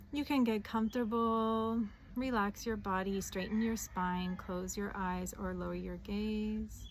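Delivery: calm guided meditation voice, with long pauses; unhurried meditation leader, phrases settling at the ends. Acted. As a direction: ease the listener gently into grounding. Leads a meditation.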